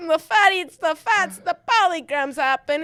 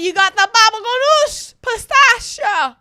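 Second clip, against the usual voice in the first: mock Italian accent; 5 semitones higher than usual. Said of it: "the accent you've chosen to do".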